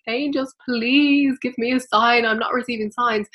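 a lightly acted desperate plea; pleading. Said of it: "If you're pleading with your angels".

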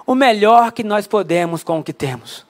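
slow it down and let the phrase land; measured, deliberate restatement; slow emphatic repeat. Shown as a demonstration. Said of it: "nada mais é do que fazer o melhor".

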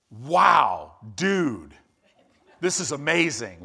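loud laid-back surfer dude Wow; a touch of Valley surfer drawl, Wow shouted out; Gabriel as California surfer. Retold or imitated. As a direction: play it like a chill California surfer who's stoked. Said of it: "if Gabriel was from California".

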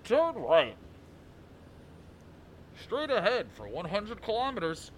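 robotic navigation announcer; GPS voice. Acted. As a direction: read it like a sat-nav. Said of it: "you wanna do the G P S voice?".

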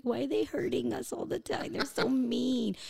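high-pitched, whiny mock complaint; whiny complaining. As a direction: whimper it like a picked-on kid, playfully. Mimics their corner complaining to each other.

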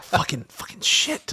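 muttered curse. Retold or imitated. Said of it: "This guy was like".

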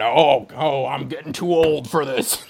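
a light, laughing Harrison Ford; barely voiced tired old hero; Harrison Ford impression. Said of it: "That's my Harrison Ford impression".

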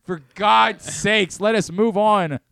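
slow, exasperated pleading. Real, not acted. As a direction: beg for it to finally happen. Pleading for a bad bean.

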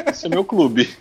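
laughing through the line. Real, not acted. Laughing line, then echoed.

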